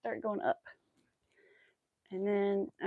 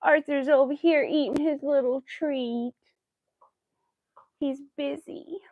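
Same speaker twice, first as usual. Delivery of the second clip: whispering; 5 semitones higher, 4 dB louder than usual. Real, not acted. Watching dog eat.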